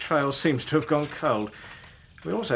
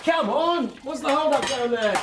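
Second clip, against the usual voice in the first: higher, impatient call down below; 10 semitones higher, slower than usual. Acted. Inspector calling down to the firemen, impatient call. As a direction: call down to hurry them up.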